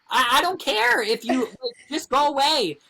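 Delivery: high, loud, flustered plea; exasperated plea. Retold or imitated. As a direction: shoo the man away in a panic. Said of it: "on the fucking toilet being like".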